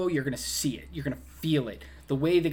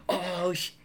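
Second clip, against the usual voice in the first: high-pitched "you're in trouble" teasing; playfully ominous, raised-pitch taunt; mock gloating onlookers; 6 semitones higher than usual. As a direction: imitate kids trailing behind, taunting. Onlookers gloating as Dom arrives.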